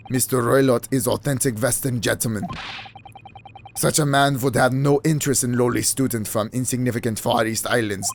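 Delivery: put-on low, accented foreign witness voice; v for w in Western, stiff and formal. Witness defends Roylott to the player, low accented voice. Voicing accented suspect in game.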